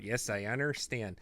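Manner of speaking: lightly put-on Chicago accent; a touch of joking Chicago accent. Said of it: "your Chicago accent is Joe Pantoliano in Bound".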